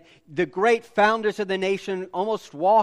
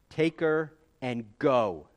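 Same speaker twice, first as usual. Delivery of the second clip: Pharaoh dismissing; 4 semitones lower, slower than usual. Acted. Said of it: "he said".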